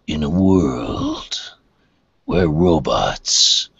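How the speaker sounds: slow, deep trailer announcer; movie trailer voice. Pretend. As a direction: growl it like a nineties trailer. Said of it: "trailer guy from the nineties".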